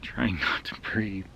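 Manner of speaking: slow, hushed whisper with a stifled laugh; breathless whisper. Retold or imitated. Kids hiding under a truck from the dad, stifled whisper.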